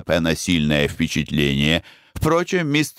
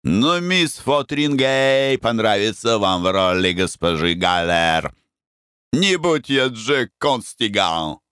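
put-on Irish accent; 3 semitones higher than usual. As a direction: roll it out like an Irish general. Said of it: "с сильным ирландским акцентом".

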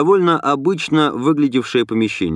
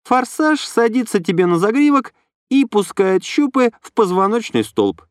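light, higher female voice; young woman voice; 10 semitones higher than usual. A narrator's reading. Inna explains.

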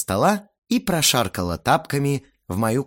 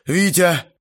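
slow, loud, high address; heavy-breathing anger; 8 semitones higher, 5 dB louder, slower than usual. A narrator's reading. Winded furious guest turns to father, heavy-breathing. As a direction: force it out between angry breaths. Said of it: "тяжело дыша проговорил он".

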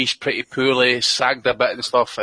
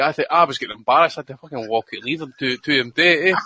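ordinary delivery

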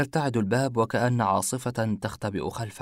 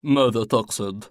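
a louder, sharp challenge; angry retort; 5 dB louder than usual. Acted. Ibrahim challenges the detective, angry. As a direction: push back hard. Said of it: "قال إبراهيم بغضب".

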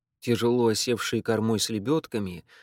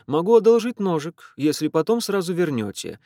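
put-on louder, higher deadpan boy; nephew's dry retort; 6 semitones higher, 5 dB louder than usual. A narrator's reading. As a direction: offer the knife with dry mockery. Nephew's stern sarcastic reply. (племянник насмешливо, громче)

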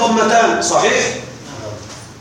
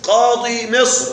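slow example; slower than usual. Shown as a demonstration. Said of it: "أقول".

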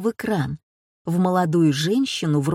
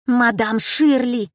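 high, louder, slower squeal; shrieking; 5 semitones higher, 5 dB louder, slower than usual. A narrator's reading. Madame Barthier squeals on spotting Shirley on TV, surprised squeal. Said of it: "взвизгнула мадам Бартье".

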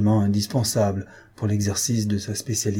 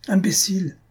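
higher-pitched mock yell; hurlement retenu; 8 semitones higher than usual. A narrator's reading. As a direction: yell the insult without real volume. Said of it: "hurle un monsieur". (cri d'insulte, plus aigu)

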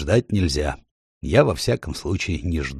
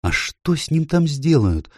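put-on high, urgent worried girl's question; anxious question; 9 semitones higher than usual. A narrator's reading. Lucy asks Mr Beaver about the faun, anxiously. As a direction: ask it as if dreading the answer. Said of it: "взволнованно спросила Люси".

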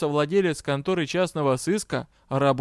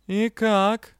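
lazy question; 5 semitones higher than usual. A narrator's reading. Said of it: "лениво поинтересовался".

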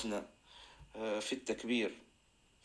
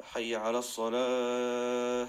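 "الصلاة" held long on a sustained note; drawn-out call; 4 dB louder, much slower than usual. Shown as a demonstration. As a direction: stretch the last syllable of "الصلاة" like a muezzin. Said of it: "حتى يمد بها صوته". (مدّ الصوت طويلاً في «الصلاة»)

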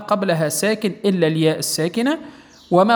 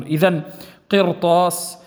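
ordinary delivery

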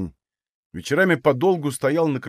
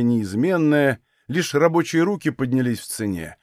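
plain reading voice

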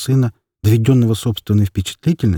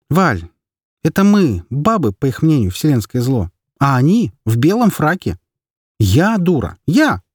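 higher-voiced mother grumbling about her drinking husband; mother venting to a friend on the phone, fed up; exasperated mother; 6 semitones higher than usual. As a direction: complain bitterly as the tired mother. Mother talks to friend Valya.

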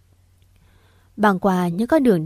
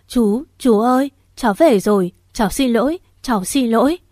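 sobbing, calling his name; 3 semitones higher than usual. Acted. Niece clinging to her uncle, sobbing his name. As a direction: call out to him through sobs, voice pitched up. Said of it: "nức nở gọi tên".

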